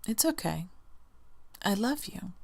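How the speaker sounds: soft, half-whispered comfort; whispered reassurance. Pretend. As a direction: hush yourself kindly. Comforting self after kid fails.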